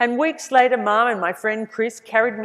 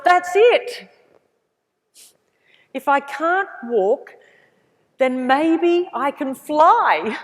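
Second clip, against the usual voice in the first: higher and louder, slowing right down on the last words; excited realisation; 6 semitones higher, 6 dB louder, much slower than usual. Retold or imitated. Thinking to herself after seeing the aeroplane, higher, louder and slow with wonder. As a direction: savour the idea as it dawns. The moment the idea strikes.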